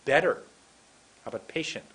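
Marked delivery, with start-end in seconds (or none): 0.0-0.4 BETTER pushed out loud; new-way emphasis. Shown as a demonstration. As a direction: punch the word BETTER. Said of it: "Let's try the new way".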